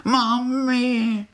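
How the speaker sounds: very high, drawn-out little cry for mum; tiny crying voice. Acted. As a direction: wail like a tiny lost cricket. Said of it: "to křičelo". (tenký úpěnlivý hlásek volající mámu)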